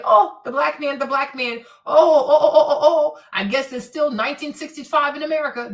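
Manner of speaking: loud, hammed-up wailing preacher; a parody pastor moaning for the cameras; mock pastor wail. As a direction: wail "oh, oh, oh" half-laughing. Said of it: "So, Pastor".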